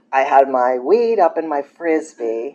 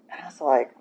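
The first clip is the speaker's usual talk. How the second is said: whispering; 9 dB quieter than usual. Real, not acted. Whispered aside before reaction.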